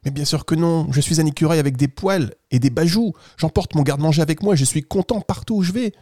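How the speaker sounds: lightly voiced kindly storybook squirrel; friendly squirrel. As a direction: play a helpful little animal reassuring a child. Squirrel reassures the boy. (écureuil bienveillant, à peine joué)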